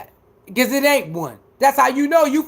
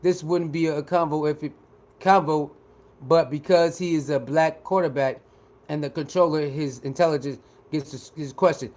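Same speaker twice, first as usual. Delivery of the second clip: mocking pundit; 8 semitones lower, 5 dB quieter than usual. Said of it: "he said".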